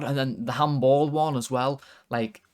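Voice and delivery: ordinary talk, nothing marked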